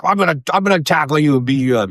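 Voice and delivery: put-on high, excited little kid voice; little nephew. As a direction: imitate a small child making big threats. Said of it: "your little nephew is like".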